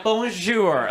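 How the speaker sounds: lightly mocked learner's bonjour; a hint of trying too hard; clumsy Duolingo French. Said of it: "white lady's on Duolingo trying her best".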